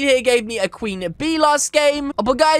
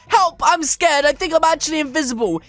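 pretend cry for help; 2 semitones higher than usual. Calling out, scared of being invisible.

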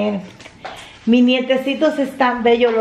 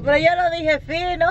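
indignant protest; 5 semitones higher than usual. Retold or imitated. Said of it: "Y yo".

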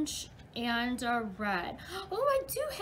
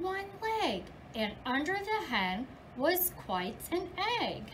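lively storybook reading for little ones; reading to children. Acted. Teacher reading The Big Red Barn to her class, lively storybook voice. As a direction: read it like story time in class. Teacher reads picture book aloud.

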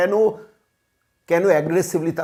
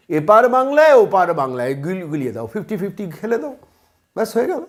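mocking the spin with a laugh; sneering parody of the leftists' line; sarcastic mockery; 3 dB louder than usual. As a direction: scoff at their trick, laughing.

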